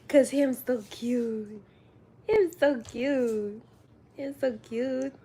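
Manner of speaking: put-on slow cooing baby talk. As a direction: coo it at a baby.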